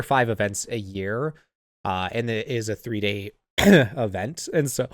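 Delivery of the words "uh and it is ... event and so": hiccuping mid-sentence; speaking through hiccups. Real, not acted. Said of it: "sorry, I got the hiccups there".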